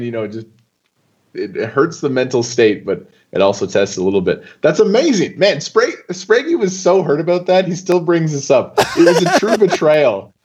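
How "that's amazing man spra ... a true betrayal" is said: high-pitched, laughing delight; amused disbelief. Real, not acted. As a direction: relish the rival's grudge, laughter breaking through. Amused by rival's lasting grudge.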